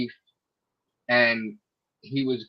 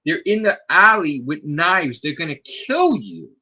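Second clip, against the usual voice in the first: urgent warning; 4 semitones higher than usual. Retold or imitated. Retold urgent warning, acted.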